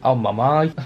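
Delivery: badly faked Belfast lilt; bad Belfast accent. Vlogger trying a phrase in the spirit of being in Belfast, bad Belfast accent. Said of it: "That was such a bad accent".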